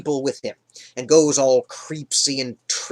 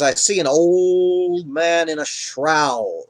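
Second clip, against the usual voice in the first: eerie seer. Retold or imitated. Witch describes the apparition.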